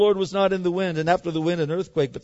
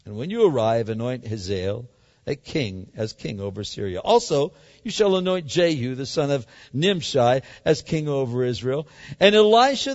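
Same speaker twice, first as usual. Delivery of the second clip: voice of the Lord. Acted. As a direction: speak as God giving orders. Voice of the Lord, lower.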